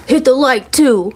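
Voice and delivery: sing-song nudge to the viewers; playful callout. Real, not acted. Asking viewers for likes, a high teasing callout.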